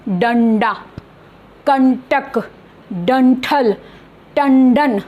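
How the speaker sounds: डंडा, कंटक, डंठल, टंडन with tongue-back n; separate, careful डंडा, कंटक, डंठल, टंडन; pronunciation demo. Shown as a demonstration. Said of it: "इसका उच्चारण थोड़ा सा डिफरेंट".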